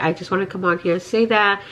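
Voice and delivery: sick, worn-out voice; tired and under the weather; feverish. Real, not acted. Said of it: "I sound so horrible and I feel horrible".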